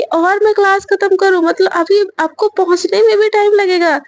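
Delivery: mock-angry, pitch pushed up in exasperation; irritated complaint. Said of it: "गुस्से में बोलती कि". (चिढ़कर, ऊँची आवाज़ में शिकायत)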